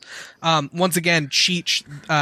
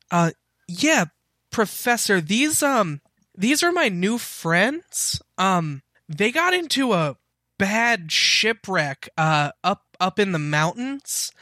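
Silver, eager and earnest; 2 semitones higher than usual. Acted. GM voices Silver to professor.

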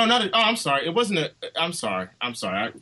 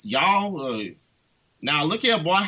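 mock Southern accent, playful impression of the actor. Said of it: "he spoke with a heavy Southern accent".

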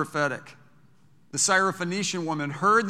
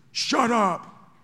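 higher, louder rough brush-off; Peter snapping; 7 semitones higher, 5 dB louder than usual. Retold or imitated. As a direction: bark it like brash Peter shoving a beggar aside. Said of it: "Can you imagine Peter".

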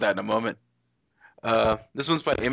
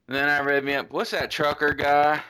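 mock Australian accent; 3 semitones higher than usual. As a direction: play a cartoon Australian reader. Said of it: "I started doing it in Australia".

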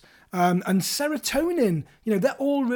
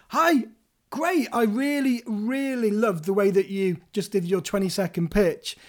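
playful. Shown as a demonstration. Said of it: "positive, playful".

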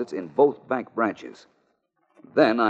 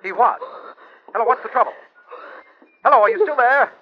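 shouting into a phone; 7 dB louder, much faster than usual. Acted. Caller cut off on phone.

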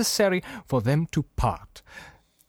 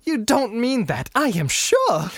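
high, insistent acted plea; protesting nephew; 8 semitones higher, 3 dB louder than usual. Nephew doubting that Scrooge means it, high protest. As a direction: protest in a much higher voice.

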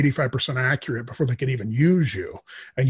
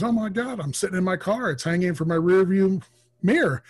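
higher-pitched astonished friend; mock astonishment, pitched up; retold amazement; 5 semitones higher than usual. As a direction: imitate a friend's startled disbelief. Retold friend amazed by correct guess.

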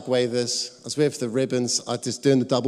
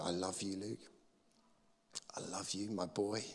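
tender chuckly voice; 3 semitones lower, 14 dB quieter than usual. Retold or imitated. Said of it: "a chuckly voice".

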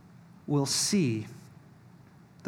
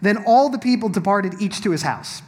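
measured Bible reading voice, a little higher and louder; scripture reading; 5 semitones higher, 7 dB louder than usual. Acted. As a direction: proclaim the passage to the room.

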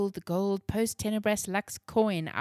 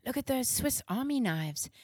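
excited; 6 semitones higher than usual. Acted. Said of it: "Rome exclaimed".

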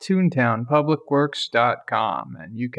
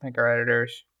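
whisper; 2 semitones lower, 5 dB quieter than usual. Real, not acted. Side prompt whispered to cohost.

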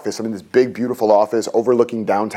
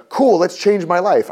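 mock breezy optimism; 8 semitones higher, slower than usual. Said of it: "it wasn't like a".

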